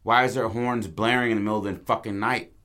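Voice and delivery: a touch of irritated alarm; agitated. Acted. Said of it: "getting really agitated and being like".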